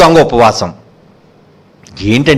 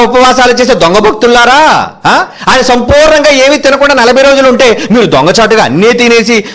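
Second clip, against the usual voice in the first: scathing preacher's rebuke; 4 semitones higher than usual. Acted. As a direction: denounce the hypocrites from the pulpit. Rebukes false devotees. (దొంగ భక్తులను నిలదీస్తూ గద్దించే ప్రసంగం)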